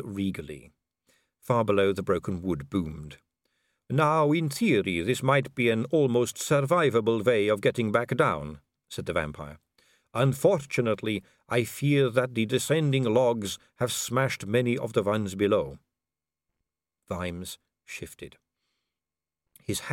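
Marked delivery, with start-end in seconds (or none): 3.9-15.8 a vampire noblewoman purring at a dangling man; suave vampire lady. Acted.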